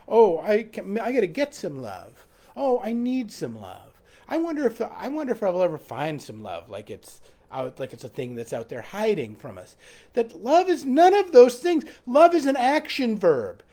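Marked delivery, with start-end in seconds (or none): 0.1-9.8 mock lovelorn Westerner. Preacher mimics a pining Westerner, soft and low. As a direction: lower and softer, wistful put-on voice. Mocking Western idea of love.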